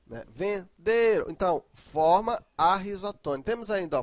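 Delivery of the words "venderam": "Venderam" slowly, with DE stressed; ven-DE-ram, measured demo. Shown as a demonstration. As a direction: lean on the middle syllable of "Venderam". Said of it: "ó, de".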